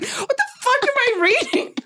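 high, fast, laughing disbelief; incredulous shriek. Retold or imitated. Reader reliving her reaction to the steamy scene, high fast laughing disbelief. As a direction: squeal it like you can't believe the book. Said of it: "here it was where I went".

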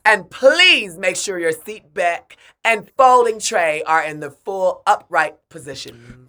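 loud, slow cabin crew voice; airport announcement. Pretend. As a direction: read the safety notice to passengers. Mock flight attendant intro.

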